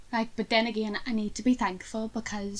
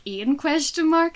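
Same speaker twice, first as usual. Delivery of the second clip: puzzled; 6 semitones higher, 5 dB louder, slower than usual. Retold or imitated. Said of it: "messaging me on Teams being like".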